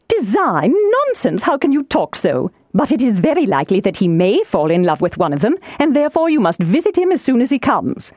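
lightly indignant wife, lilting upward; a hint of a flustered matron; excitable wife, dismissive. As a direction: brush off the husband and press on. Voices Mrs Bennet dismissing husband.

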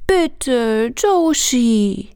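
put-on high, begging little boy; pleading child. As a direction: plead sweetly like a small child. Junge bettelt. (flehende Kinderstimme)

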